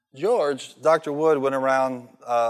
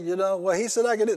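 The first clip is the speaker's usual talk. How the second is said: raised pitch, fussy and defiant; mock the new convert digging in her heels; indignant church lady; 8 semitones higher, 3 dB louder than usual. Convert arguing with the other lady, mock indignant.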